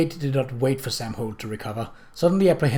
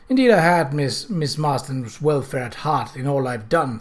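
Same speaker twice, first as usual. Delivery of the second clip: stiffly. Acted. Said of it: "Thornton replied stiffly".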